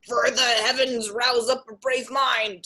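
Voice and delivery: urging fiend in a put-on voice; a tempter rousing courage; fiend's voice. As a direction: egg him on as the fiend. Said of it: "says the fiend".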